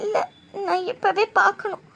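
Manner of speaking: tearful, pleading through sobs; crying insistence. Acted. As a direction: cry it out, desperate to go now. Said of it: "முத இந்த அழுகிறத நிப்பாட்டு".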